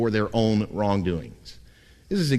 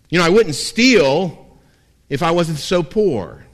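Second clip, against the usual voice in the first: mock self-pitying excuse, louder; whining excuse; 3 semitones higher, 4 dB louder than usual. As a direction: play a sinner blaming God for his sins. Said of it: "says the thief".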